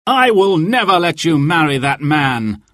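high, determined vow; firm protective cry. A narrator's reading. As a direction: refuse it fiercely. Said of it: "cried Robin".

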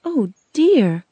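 gentle, lifted concern; kindly. A narrator's reading. Girl pities the stuck scarecrow, kindly. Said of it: "Dorothy said kindly".

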